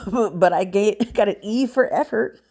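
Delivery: laughing while joking; chuckling through the line. Real, not acted. Laughs at own joke.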